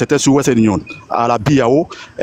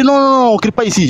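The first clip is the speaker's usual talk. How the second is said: guard shushing; 9 semitones higher than usual. Retold or imitated. Security guard scolding the shouting client, mock stern. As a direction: imitate the guard telling him off. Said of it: "Il dit, il dit".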